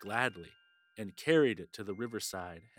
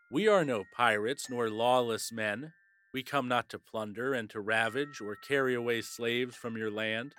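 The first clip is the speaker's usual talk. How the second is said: loud answer; 3 dB louder than usual. Acted. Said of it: "shouted loudly in answer".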